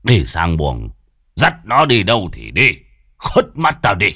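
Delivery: father calling out from his room, dismissive. Acted. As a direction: shout it back over the shoulder. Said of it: "nói vọng ra ngoài".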